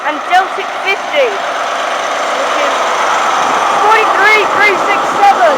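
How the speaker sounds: talking through a mouthful of chocolate; cheeks stuffed full. Real, not acted. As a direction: mouth full, words round a bite. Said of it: "my mouth is full of twirl".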